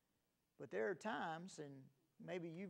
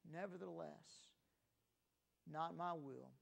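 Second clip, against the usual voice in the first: quiet surrender; 4 dB quieter than usual. Retold or imitated. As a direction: yield quietly and gently. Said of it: "He said these words".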